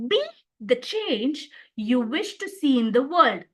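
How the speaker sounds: BE said first and set apart, then the rest; stress on Be. Shown as a demonstration. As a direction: lean on the opening word Be. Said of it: "The very first sentence".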